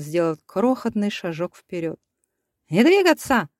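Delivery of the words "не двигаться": high, loud yell; a cornered man yelling to freeze. A narrator's reading. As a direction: bark the order at them. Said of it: "заорал немец".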